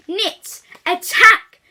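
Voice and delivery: loud, high battle cry; shouted command. Acted. Knit Boy shouting at his teacher, loud battle cry. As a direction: scream the order to attack. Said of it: "shouted the boy".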